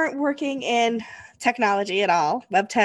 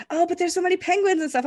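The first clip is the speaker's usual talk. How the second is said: mock naive friend; 7 semitones higher than usual. Quoting naive friend about penguins.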